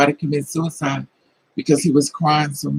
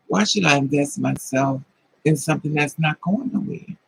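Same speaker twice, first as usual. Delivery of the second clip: ordinary talk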